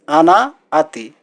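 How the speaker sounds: आना आती said slowly, each syllable drawn out; slow model pronunciation; slow teaching repeat. Shown as a demonstration. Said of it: "इसको अरबी में बोला जाता है".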